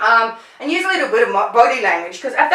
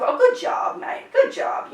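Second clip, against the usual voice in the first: very high, breathy "good job, mate"; gushing praise. Shown as a demonstration. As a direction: praise the dog lavishly. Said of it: "I still give him".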